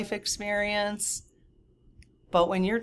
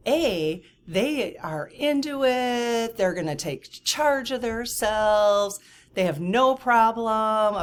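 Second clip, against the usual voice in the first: higher, slower sing-song sales voice; mock salesy pitch; 5 semitones higher, slower than usual. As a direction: parody her pitch, drawing it out. Mocking the pitch, slow and high.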